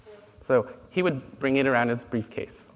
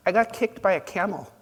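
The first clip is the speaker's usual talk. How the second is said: a hint of a different, higher Piglet voice; lightly voiced Piglet; 7 semitones higher, 3 dB louder than usual. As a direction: lightly play the sad little pig. Piglet answers Pooh in joke.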